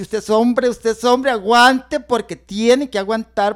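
loud, firm self encouragement; mock self pep talk. Man cheering himself on loudly through stinging pain. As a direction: shout it to yourself to endure the sting.

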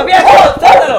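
high frantic yell; panicking shout. Real, not acted. Dog attacks, shouting.

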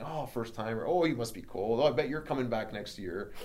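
lightly imitated jeering; mild retold taunting; mocking. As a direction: tease like passers-by heckling a newcomer. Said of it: "people are still mocking me".

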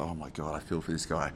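hushed pitying aside, well under normal volume; quiet inner reaction. Retold or imitated. Wedding guest in front of a struggling speaker, quiet pitying aside. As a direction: murmur it as a private thought. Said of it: "I was like".

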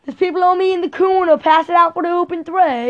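Jackie White. Acted. Son playing teammate under pressure, loud Australian accent. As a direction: shout like an Australian player on court. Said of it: "How does Jackie White talk?".

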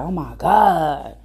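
slow, drawn-out exasperation; little attitude. Retold or imitated. Mom asked to help with homework, imitated with drawn-out attitude. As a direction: imitate an annoyed mom, stretching the words. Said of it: "like, a little attitude".

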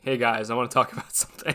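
low, quick sullen mumble of an opener. Retold or imitated. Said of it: "my sullen voice going".

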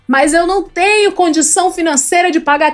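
like Julius. Retold or imitated. Father refusing to pay for anyone's rehab, like Julius. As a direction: lay down the law as a Julius-style dad. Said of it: "é muito Julius".

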